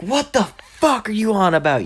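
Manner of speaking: high-pitched mock-angry question; incredulous bully. Bakugo hears Deku is the Avatar, incredulous high outburst. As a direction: start way up high in disbelief.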